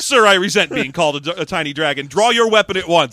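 loud haughty southern gentleman; southern dandy. Pretend. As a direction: challenge to a duel, offended. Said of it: "Not a southern dandy".

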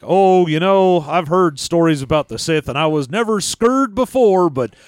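lightly voiced old cowboy. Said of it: "some sort of old cowboy voice".

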